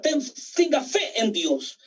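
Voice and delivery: slow personal charge. Acted. Preacher tells each church member by name, slowly. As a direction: hand each word to them slowly.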